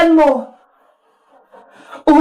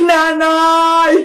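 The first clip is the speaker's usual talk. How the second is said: mock-tearful plea for mother; frightened child wail. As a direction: wail like a scared captive kid. Captive child wails for mother. (kunwaring iyak ng takot na bata)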